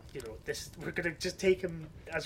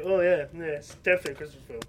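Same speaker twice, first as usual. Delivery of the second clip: smug; 5 dB louder, faster than usual. Retold or imitated. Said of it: "is to not sound smug".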